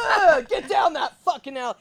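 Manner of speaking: loud, high growling grunt; tennis grunt. Retold or imitated. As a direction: growl it like hitting a ball. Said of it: "they did call me the growler".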